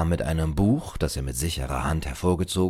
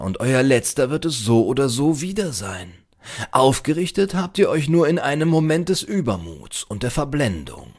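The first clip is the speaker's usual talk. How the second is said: higher, emphatic lecturing librarian; admonishing librarian; 8 semitones higher, 4 dB louder than usual. A narrator's reading. Librarian challenges the upright stranger, admonishing. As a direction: challenge the listener like a zealous scholar.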